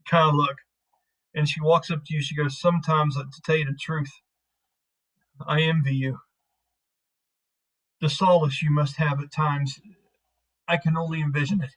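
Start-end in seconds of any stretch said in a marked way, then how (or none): 2.6-11.7 understated, measured sarcasm; sarcastic. Acted. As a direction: feign envy with a mild sarcastic edge. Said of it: "she says this sarcastically".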